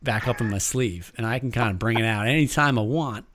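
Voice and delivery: put-on northern American accent. Shown as a demonstration. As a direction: show off a Minnesota-like American accent. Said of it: "Your American sounds so northern".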